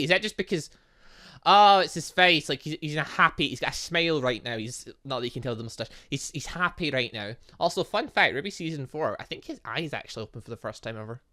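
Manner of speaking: usual speaking voice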